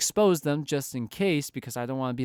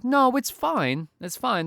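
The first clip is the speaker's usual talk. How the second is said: forced calm; 9 semitones higher, 3 dB louder, slower than usual. Retold or imitated. Forced self-reassurance in retold thought.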